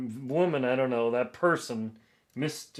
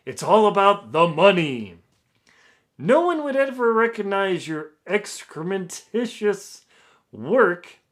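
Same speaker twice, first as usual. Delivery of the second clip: louder, higher hammed-up pompous English accent; 6 semitones higher, 8 dB louder than usual. Author reading the reviewer's insults, pompous English accent. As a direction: declaim it like a haughty English snob. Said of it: "pompous English accent".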